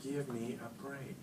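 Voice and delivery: slow, deliberate, exasperated put-down; mock indignant scolding. To the school secretary, slow mock indignation. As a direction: drag it out like you can't believe the call. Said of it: "I am mad".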